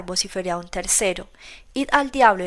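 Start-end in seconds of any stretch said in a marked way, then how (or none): 1.7-2.4 higher, louder angry outburst; furious shout. Acted. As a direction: tell them all to go to hell. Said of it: "furious carter to the crowd".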